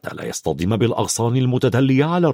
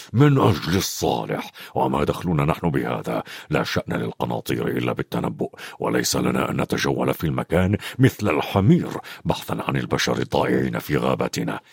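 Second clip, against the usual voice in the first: much lower, softer growl of a centaur; growling Bane; 12 semitones lower, 4 dB quieter than usual. A narrator's reading. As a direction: growl the reproach down low. Narrator voices Bane arguing.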